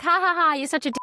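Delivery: high, laughing mock insult; teasing laugh. Daughter teasing her dad with a loud laugh. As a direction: tease him with a laugh, lovingly. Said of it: "you'd say, like".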